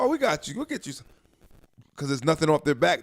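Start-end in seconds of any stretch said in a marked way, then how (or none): 0.0-1.1 high, sing-song fake kindness; mock sweet staff voice. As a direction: chirp it like cheerful hospital staff. Imitating hospital staff.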